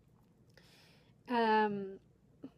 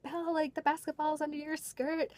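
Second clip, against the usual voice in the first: higher-pitched mock child voice; imitating excited kids; 6 semitones higher than usual. Kids tell Belle about the basketball, imitated in a higher voice. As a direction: call it out like a kid telling on a lost ball. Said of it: "they were all like".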